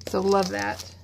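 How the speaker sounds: normal talking voice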